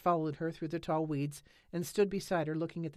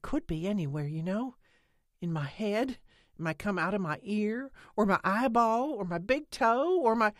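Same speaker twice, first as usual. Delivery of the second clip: building, louder and higher toward the end; rising excitement; 5 semitones higher, 7 dB louder than usual. A narrator's reading. Lena lists where the baby could be, building excitedly. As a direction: let it run away with you. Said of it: "Lena's voice rose excitedly".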